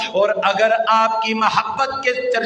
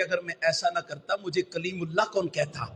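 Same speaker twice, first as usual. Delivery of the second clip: much softer, faster reverent answer; hushed reply; 5 semitones lower, 10 dB quieter than usual. Acted. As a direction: drop to a soft, quick murmur. Moses answers softly.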